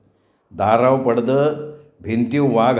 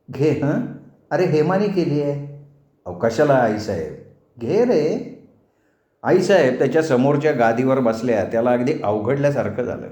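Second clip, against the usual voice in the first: gentle mother; 3 semitones higher than usual. Acted. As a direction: coax him kindly like a fond aunt. Mother voiced tenderly.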